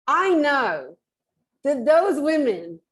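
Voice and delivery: loud, high and drawn-out retold protest; mock accusation. Retelling her words to the nail technician, mock accusing.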